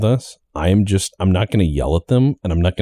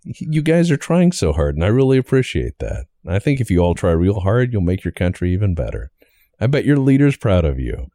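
Mister Rogers voice. Pretend. Mister Rogers style praise.

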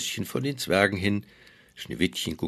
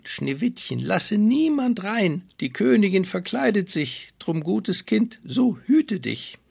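warning dwarf; 8 semitones higher than usual. Acted. Dwarfs warn Snow White.

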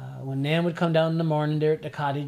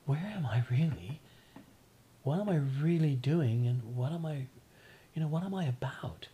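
softening to a near whisper as the questions go on; inner reflective musing; 4 dB quieter than usual. Retold or imitated. Sailor alone at sea asking himself about life, hushed and musing. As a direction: ask yourself quietly, drifting into a whisper. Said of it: "causes you to think".

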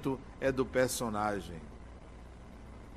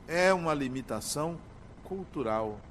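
softer, falling to a hush on "cultural"; quiet repetition; 6 dB quieter than usual. Shown as a demonstration. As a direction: repeat it quietly, letting it sink in.

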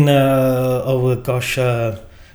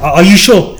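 anxious pressing; 2 semitones higher, 6 dB louder than usual. Retold or imitated. Anxious question to shopkeeper.

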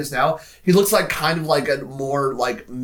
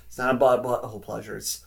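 deadpan, a little quieter; Steve Carell deadpan; 3 semitones lower, 4 dB quieter than usual. Retold or imitated. Podcaster quotes Andy echoing the line, deadpan. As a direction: repeat it with no reaction at all. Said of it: "Steve Carell deadpan just goes".

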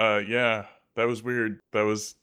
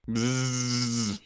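fly buzz; 3 semitones higher than usual. Pretend. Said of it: "Am I thinking like a fly?".

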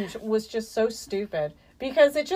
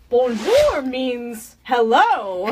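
language tape voice; 5 dB louder, much slower than usual. Pretend. Mocking a language-lesson video.

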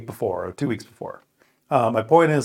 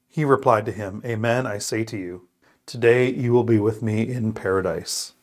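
measured, clearly phrased Bible reading; scripture reading. Real, not acted. Man reads Luke's crucifixion passage aloud, deliberate and solemn. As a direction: read it out as for a congregation, stressing key words.

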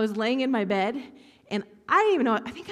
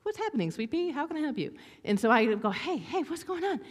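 put-on comforting a sobbing girl; 6 semitones higher than usual. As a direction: coax her gently, like to a child. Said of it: "my job at this moment to be like".

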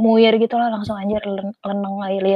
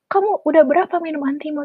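imitated Batak accent, pitched up; 6 semitones higher than usual. Health student roommate questions the seasick friend in an imitated Batak accent. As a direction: put on a higher Batak-accented voice. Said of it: "terus pakai logat Batak gitu".

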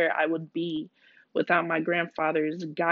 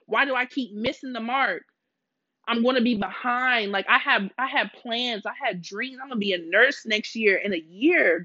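rising distressed plea; 5 semitones higher than usual. Retold or imitated. Retold desperate prayer.

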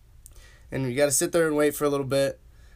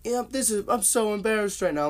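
embarrassed; 7 semitones higher than usual. Retold or imitated. Reliving embarrassed, suppressed church giggles.

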